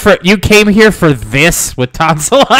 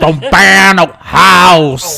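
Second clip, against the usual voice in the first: character voice; much slower than usual. Acted. Joking about the character.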